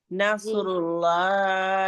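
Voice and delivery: نصر اللہ slow, with a thick, full L in اللہ; heavy Allah. Shown as a demonstration. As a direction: model نصر اللہ drawn out, اللہ pronounced heavy. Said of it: "لفظ اللہ کو بھی ہم موٹا پڑھیں گے". (نصر اللہ میں لفظ اللہ موٹا)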